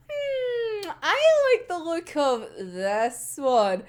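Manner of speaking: slow, drawn-out hum opening high; savouring a choice. Retold or imitated. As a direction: pretend to browse and pick with relish. Acts out picking someone with relish.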